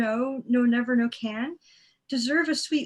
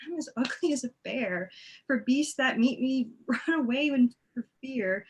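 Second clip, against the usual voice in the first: laughing. Acted. Helena laughs at herself.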